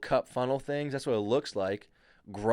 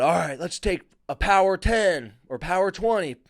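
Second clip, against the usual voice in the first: put-on higher, louder call in a German accent; 7 semitones higher, 5 dB louder than usual. German teammate calling a power ten, German accent. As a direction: bark it out like a German rower. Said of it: "in his German accent".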